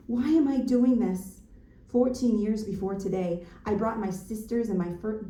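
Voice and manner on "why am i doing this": loud, raised-pitch exasperated question; exasperated outcry. Acted. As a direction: cry it out, fed up with the cold. Exasperated refrain in the freezing creek.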